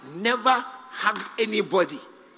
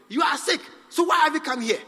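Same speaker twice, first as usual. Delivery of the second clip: mock puzzled questioning, a bit louder; incredulous doctor; 6 semitones higher, 4 dB louder, faster than usual. Doctor to patient, mock bewildered and a bit louder. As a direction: play a doctor baffled by the obvious.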